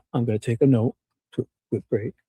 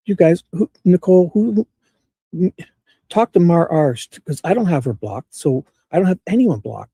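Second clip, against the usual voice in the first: urgent calling out; 5 semitones higher, 5 dB louder than usual. Real, not acted. Urgent calls to chat about Mar R.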